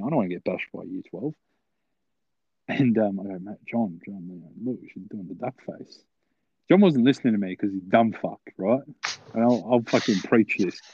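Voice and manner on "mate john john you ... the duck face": sly, hushed aside to a mate; whispering. Retold or imitated. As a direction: keep it down so she won't overhear. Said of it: "I'm whispering".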